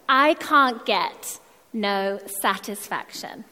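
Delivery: lyrics read out slowly in posh English; posh English accent. Acted. Preacher reading rock lyrics to the congregation for laughs, posh English accent. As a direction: recite it deliberately, very proper English accent. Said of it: "read out the lyrics in my posh English accent".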